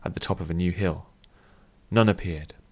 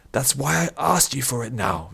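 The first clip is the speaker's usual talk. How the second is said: higher-pitched irritated retort; snapped; 6 semitones higher than usual. A narrator's reading. Addict retorts to the old man, snapping. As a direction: snap it back, pitch jumping up. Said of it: "Vish snapped".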